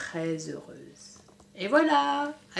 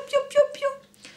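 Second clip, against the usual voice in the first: much higher, slow tiny cheeping; slow chick peeps; slower than usual. Acted. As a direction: draw out each little peep slowly. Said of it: "Qui faisaient les petits poussins". (piaillement aigu et lent)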